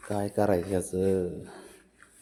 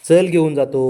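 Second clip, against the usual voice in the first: loud coaxing call; 8 semitones higher, 12 dB louder than usual. Real, not acted. Coaxing pet to get up.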